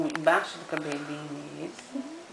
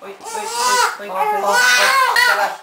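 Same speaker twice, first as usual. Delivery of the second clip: put-on baby talk; 9 dB louder than usual. Voicing pity for baby.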